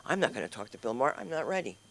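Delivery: timid quote. Retold or imitated. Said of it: "you can't say".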